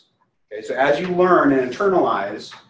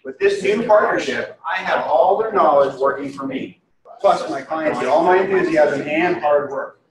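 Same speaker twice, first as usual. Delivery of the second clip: some voice inflection; 4 semitones higher than usual. Shown as a demonstration. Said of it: "Put a little voice inflection in".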